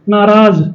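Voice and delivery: नाराज ending in a z sound, naa-raaz; नाराज with the nukta, z not j. Shown as a demonstration. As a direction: say नाराज as naaraaz with a final z. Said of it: "नुक्ता बोलते हैं इसे".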